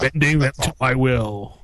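sinister overlord, bending wills; menacing villain voice. Pretend. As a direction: gloat like a dark lord. Villain quote.

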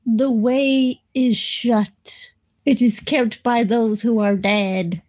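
slow, gloomy intoning; depressed voice. Pretend. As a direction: sound hopeless and doomed. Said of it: "Now sound depressed".

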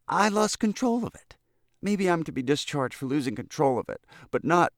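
put-on high-pitched, earnest boy's excuse; anxious, wronged boy. A narrator's reading. Boy explains the runaway car to the governor, anxiously earnest. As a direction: plead innocence, climbing high. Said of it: "as if anxious to set right a great wrong".

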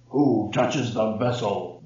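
a hidden spirit in the jar demands who touched it, booming slowly. Acted. Slow booming jar spirit. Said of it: "the voice boomed".

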